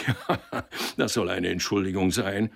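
a derisive chuckle then words; scoffing laugh. Acted. Boss laughing at the clerk's excuse, scoffing. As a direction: laugh it off in scorn.

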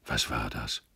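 low, soft, dazed question; talking to himself. A narrator's reading. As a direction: wonder aloud to yourself. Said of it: "sagte er endlich laut vor sich hin".

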